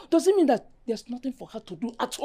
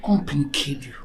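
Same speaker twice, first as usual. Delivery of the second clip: low sneering whisper; muttered whisper; 13 semitones lower, 4 dB quieter, faster than usual. Acted. Mother mocking her daughter's excuse, sneering whisper. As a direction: hiss the words under your breath.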